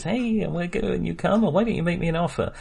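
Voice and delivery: bright, high, falsely chirpy estate agent pitch; a hint of a slick automated salesman; fake friendly sales assistant. Mimicking the virtual estate agent's pitch, mock-friendly. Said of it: "that kind of sheen of friendliness".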